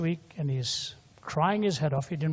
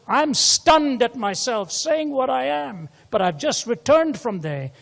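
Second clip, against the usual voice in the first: forceful preaching; 9 semitones higher, 7 dB louder than usual. Acted. Preacher quoting at full force.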